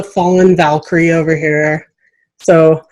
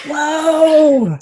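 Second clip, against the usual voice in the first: a high, amazed gasp of a whoa; surprised whoa; 9 semitones higher than usual. Real, not acted. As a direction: react with real amazement. Host reacts to 37 moves.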